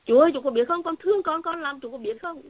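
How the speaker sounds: high, loud wailing plea; retold crying prayer, voice up and loud; tearful crying plea. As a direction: sob it out to God. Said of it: "Hoa cũng khóc nữa".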